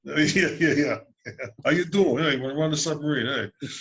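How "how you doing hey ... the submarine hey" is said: put-on New York accent. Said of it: "Yeah, that's real believable".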